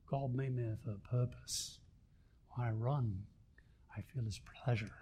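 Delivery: soft, low, badly faked Scottish accent; terrible Scottish accent. Preacher quoting Eric Liddell to the church, bad Scottish accent. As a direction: attempt a clumsy Scottish accent, quietly. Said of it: "That's a terrible Scottish accent".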